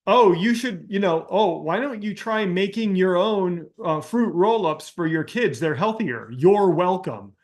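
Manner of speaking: mock self-satisfied helpfulness; exaggerated smug know-it-all; pretentious advice-giver. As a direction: offer advice as if doing a great favour. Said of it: "is so pretentious".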